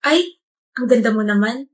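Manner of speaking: softly mimicking his flirty line; mocking imitation.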